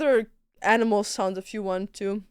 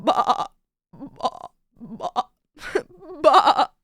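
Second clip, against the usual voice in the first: horse sound; 3 semitones higher, slower than usual. Acted. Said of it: "That's a horse sound".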